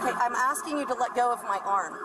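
strained pleading, arm twisted back; pained voice from a twisted arm. Real, not acted. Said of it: "you've got me here breaking my arm".

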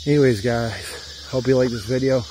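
out of breath from the uphill climb; winded, catching breath between words; gasping between phrases. Real, not acted. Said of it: "I'm out of breath".

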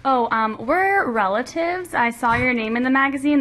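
a hint of an eager stranger on the phone; caller's voice. Acting out excited caller relative.

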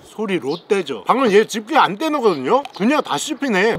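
talking while crunching; chewing crunchy food. Real, not acted. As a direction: mouth full, chewing. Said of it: "소리 들어보세요. 에이에스엠알".

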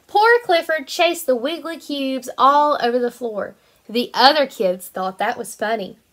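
bright, lively storybook reading; reading to children. Acted. Teacher reading a picture book to her kindergarten class, lively storytelling. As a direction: read it out like it's circle time.

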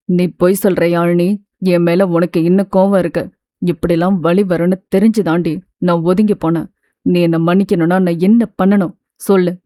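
a hint of a wounded lover begging; lightly voiced pleading man. Siva pleading on phone. (லேசாக தாழ்ந்த, கெஞ்சும் ஆண் குரல்)

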